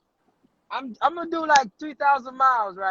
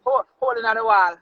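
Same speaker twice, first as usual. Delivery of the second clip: Jamaican patois "hole in the wall"; relaxed Jamaican phrase; Jamaican accent. Shown as a demonstration. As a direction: say it with a Jamaican lilt. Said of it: "It's, it's hole in the wall".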